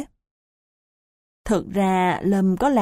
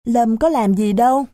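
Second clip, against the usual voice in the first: flustered protest; 4 semitones higher, 4 dB louder than usual. Acted. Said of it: "miệng rối rít".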